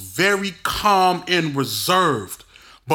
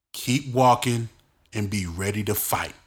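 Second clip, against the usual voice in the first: low, softer, unhurried instruction; calm; 5 semitones lower, 3 dB quieter than usual. Retold or imitated. Big brother quietly telling him to fight, calm. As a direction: say it calmly, no hype. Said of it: "The man said calmly".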